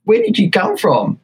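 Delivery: imitating a startled shop girl; freaked-out quote. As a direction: mimic her alarm at a stranger turning up. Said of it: "She is freaking out".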